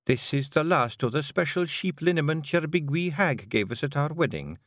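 lightly voiced Scottish pixie wife, teasing; a gentle Scots lilt for Jeanie; a hint of a Scottish wife; Jeanie, Scottish Feegle wife. Jeanie offers liniment.

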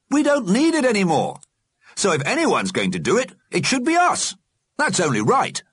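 put-on high, firm old gentleman; old alderman voice. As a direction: speak as a stately old alderman. Alderman speaks to the dead.

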